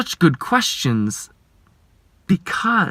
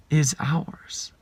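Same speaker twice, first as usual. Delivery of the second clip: whisper; 6 dB quieter than usual. Real, not acted. Hushed close of a line.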